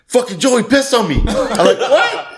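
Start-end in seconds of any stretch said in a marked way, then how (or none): 0.1-1.2 higher, outraged friend voice; high outraged buddy. Retold or imitated. 1.8-2.3 high shocked yelp. Retold or imitated. Shocked reaction.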